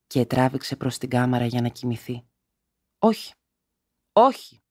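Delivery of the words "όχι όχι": high, loud cries of refusal; shouting no. A narrator's reading. Mother shouting at her drunk husband to refuse, high and loud. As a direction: cry out to stop him. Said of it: "εφώναξε".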